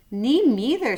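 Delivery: tiny squeaky mouse voice; a small mouse piping up; little voice. A narrator's reading. Mouse pipes up to the boars, small and high. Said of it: "said a little voice".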